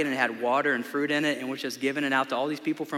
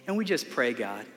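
closing prayer. Acted. Pastor prays over the congregation at the close, earnest prayer voice.

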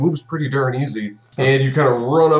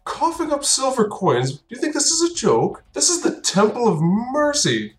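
high, incredulous npc voice; mock outrage at a joke; indignant temple priest, much higher; scoffing priest; 11 semitones higher than usual.

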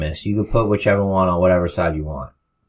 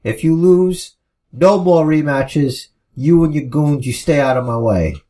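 put-on fired-up babyface promo; 4 semitones higher than usual. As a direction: throw the match back in his face. Finn snapping back at Miz.

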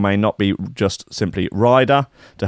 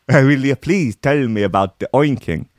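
higher, put-on begging voice; hammed-up exasperated plea; mock pleading; 4 semitones higher than usual. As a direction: plead theatrically about the OINKING. Mock pleading, repeats the demand.

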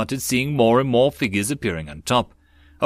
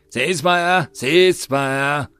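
moderately raised sergeant's roar; roared order; 4 semitones higher, 4 dB louder, much slower than usual. A narrator's reading. Sergeant halting his gunners over the din, roaring. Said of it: "the sergeant roared out over the din".

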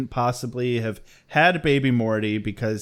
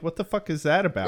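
confused laughing; 3 semitones higher, 4 dB quieter, faster than usual. Retold or imitated. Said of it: "And I'm like".

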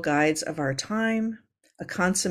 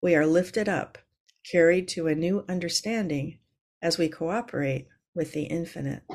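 contemplative reading. Acted. Reads a contemplative quote.

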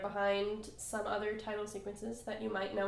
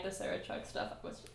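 whispering; 6 dB quieter than usual. Real, not acted. Hushed gush about romance.

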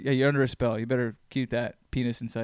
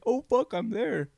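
imagined listener; 9 semitones higher, slower than usual. Pretend.

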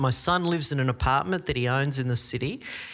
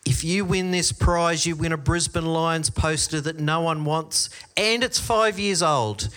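built-up hype; 3 semitones higher than usual. Retold or imitated. Camp leader to kids about a prize nobody wants, built-up hype. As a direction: talk up the prize, stretching the last words. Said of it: "we built it up".

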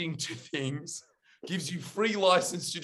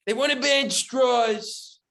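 Trump impression; 6 semitones higher, 4 dB louder than usual. Friend mocks Trump's straw rant, hammed-up Trump voice. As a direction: lean on each word like a rally speech. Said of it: "an inflection in Trump's voice".

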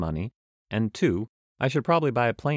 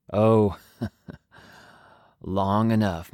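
cool traveler's voice; 2 semitones higher, 4 dB louder, much slower than usual. Acted. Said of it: "I do need to change voices".

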